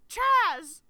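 high, loud called name; singer impression. Fan's second singer bit, loud call. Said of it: "That's all I got".

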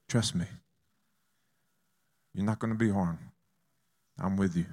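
calm, unhurried comforting Jesus; steady a scared jumper, gently; lightly acted soothing voice; acted reassurance.

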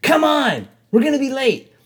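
high, loud nagging imitation; mock a girlfriend impatiently calling out; bitchy girlfriend. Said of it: "this bitchy girl".

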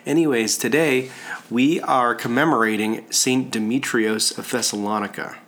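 stuffy nose, congested speech. Real, not acted. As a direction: talk through a blocked-up head cold. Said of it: "my congested voice today".

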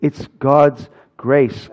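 soft, slow. Acted. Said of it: "repeated softer, slower".

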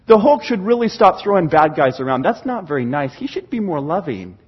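mild disapproval. Acted. Preacher mocking critics of the Hulk, mildly disapproving. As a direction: object meekly, like a squeamish critic. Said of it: "We don't ever sit back and go".

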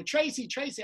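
high mock call; imitated calling. Back-row lady calls out for Tracy, imitated calling. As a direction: echo the heckler's cry. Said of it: "Who's shouting Tracy?".

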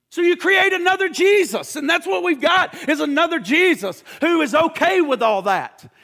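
rising preaching. Real, not acted. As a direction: press the point hard from the pulpit. Preacher builds to the climax.

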